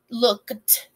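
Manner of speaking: "looked" with a separate final "t"; one syllable "looked", crisp "t" at the end. Shown as a demonstration. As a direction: release the "t" in "looked" clearly. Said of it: "That T looked".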